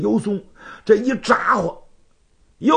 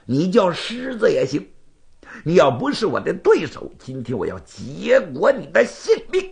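proud rival spoiling for a fight; lightly voiced menacing swordsman; combative challenger; 2 semitones higher than usual. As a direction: dare him to cross blades. Bai challenges him to fight.

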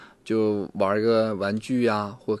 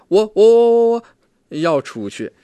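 “我” repeated much higher and much louder, stuck before “要出去”; a child who can't get past “我”; stuttering on first word; 12 semitones higher, 10 dB louder than usual. Retold or imitated. Therapist imitating a stuttering child failing to stress “我”. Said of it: "没有重，重下这个音的时候".

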